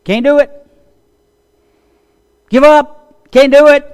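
high, loud mock jeers; taunting naysayers. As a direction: jeer it like a doubter.

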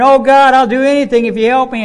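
loud, high, fast pleading; falling man promising anything to God, loud and fast; panicked prayer. Retold or imitated. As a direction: bargain with God in a rush. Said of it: "he's praying".

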